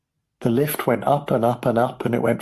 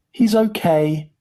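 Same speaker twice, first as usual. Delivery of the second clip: slow, high, loud relief; jubilant cry; 8 semitones higher, 5 dB louder, slower than usual. A narrator's reading. Mister Wonka announcing the boy is safe, jubilant cry. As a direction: exclaim it loudly, stretched out. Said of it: "cried Mister Wonka".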